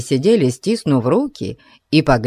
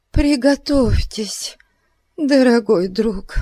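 ominous gossip; 9 semitones higher than usual. A narrator's reading. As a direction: lay it on heavily, dramatic. Mrs Bute preparing bad news. (зловеще, с расстановкой)

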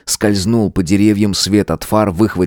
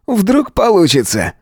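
higher, eager question; hopeful offer; 12 semitones higher, slower than usual. A narrator's reading. Matvey eagerly offers to try, higher voice.

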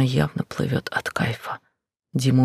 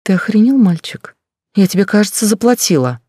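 high, loud indignant yelling; angry shriek; 7 semitones higher, 8 dB louder than usual. Acted. Blonde yells at the gigolo who paid, high angry shriek. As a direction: scream at him, outraged he dares.

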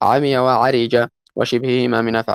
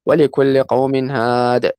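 Quran recitation; 2 semitones higher, much slower than usual. Acted. Quotes Quran verse.

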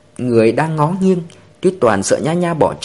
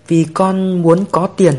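sobbing; 4 semitones higher, 4 dB louder, slower than usual. A narrator's reading. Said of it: "nức nở trả lời".

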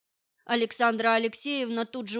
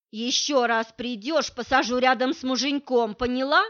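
insinuating; 2 semitones higher, 6 dB louder than usual. Acted. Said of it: "вкратчиво спросил он".

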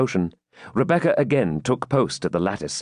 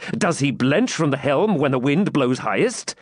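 mildly scornful raised question; indignant knight; 5 semitones higher than usual. Acted. Knight doubts his champion's courage, indignant.

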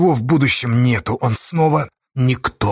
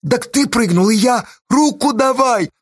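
urgent call; 10 semitones higher than usual. Acted. Boy calling out on cliff.

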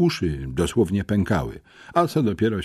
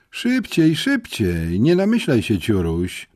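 szybko, wyżej i głośniej, poganiająco; popędzaj chłopca niecierpliwie; ponaglanie; 5 semitones higher, 4 dB louder than usual. Acted. Pani Gabryś ponagla, pchając. (niecierpliwe ponaglanie)

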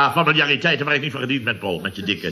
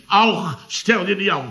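higher-pitched imitation of a gentle aunt; sweet little voice; 6 semitones higher, slower than usual. Chef quoting aunt Lien's remedy, in a high sweet little voice. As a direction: mimic her sweet voice, pitched up. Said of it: "met het lieve stemmetje".

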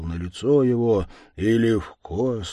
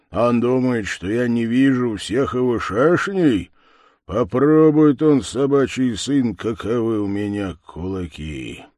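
loud, rising threat that swells to a bark; menacing threat; 2 semitones higher, 5 dB louder than usual. Acted. The stranger threatens Левко, loud and menacing. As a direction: threaten with a fist raised.

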